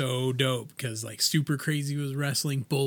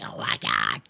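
retold amazement. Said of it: "And I was like".

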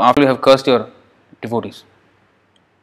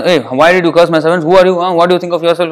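mock indignant Lord; 3 semitones higher than usual. The Lord scolding the four sages who cursed his servants, in mock anger. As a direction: act out a haughty Lord demanding answers, half joking. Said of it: "he don't behave like this".

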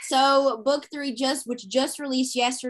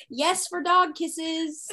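higher, slow, drawn-out cheer; gleeful approval; 5 semitones higher, much slower than usual. Retold or imitated. Reader cheering on the dog kisses in the book, gleeful. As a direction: savor it with mock-heroic enthusiasm.

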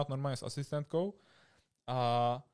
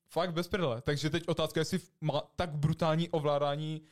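ordinary delivery

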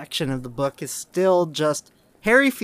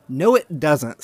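mildly acted snappy retort; loud, curt contradiction, lightly irritated; snapped; 6 dB louder, slower than usual. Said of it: "snapped Hermione".

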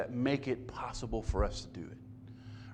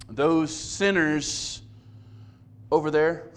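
disparaging; slower than usual. Retold or imitated. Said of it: "like a disparaging remark about some category".

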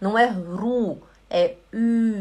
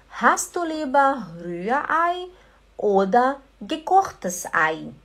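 asking Bruna; 4 semitones higher than usual. Retold or imitated. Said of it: "Mas eu falo, Bruna".

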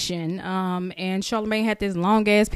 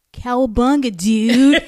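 lightly mocked surfer-dude California accent, louder; 2 semitones higher, 6 dB louder than usual. Co-host mocking a rapper's interview, mock California surfer accent. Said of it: "waiting for that nigga to say".

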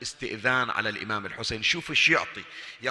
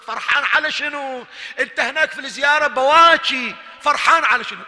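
rising amazement, pitch up; higher, louder astonished question; 10 semitones higher, 12 dB louder than usual. Acted. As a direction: ask it in loud wonder. يسأل الحاج بتعجب. (سؤال متعجب بصوت عال)

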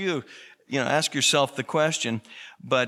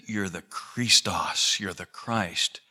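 Peter's confession; 5 semitones lower than usual. Retold or imitated. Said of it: "Peter said".

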